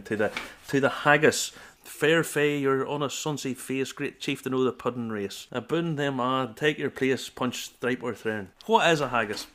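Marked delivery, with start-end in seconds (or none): 1.8-8.5 slow, measured reading of Burns' verse; poem recitation. Acted. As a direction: recite it like a Burns Night toast, unhurried. Recites Burns' Address to a Haggis.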